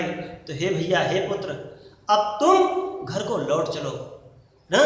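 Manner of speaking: soft, pleading mother's appeal to her son; a softly voiced mother pleading; tender plea. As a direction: beg him gently to come home. Kaikeyi pleading with Ram.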